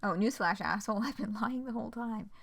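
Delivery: laughing through the quote. Retold or imitated. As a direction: giggle while repeating it. Re-quoting the line laughing.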